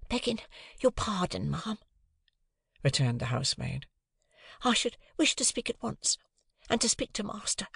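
high, breathy servant's whisper; hushed, urgent maid; whispering housemaid. A narrator's reading. Housemaid insists.

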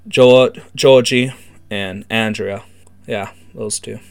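lightly voiced street informant; gang informant explaining. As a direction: lay out the bad news like a gang insider. Informant explains what befell the kids.

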